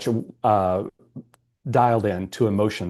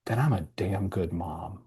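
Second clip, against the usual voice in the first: soft proud quote; 4 semitones lower, 7 dB quieter than usual. Retold or imitated. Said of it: "she smiled, and she goes".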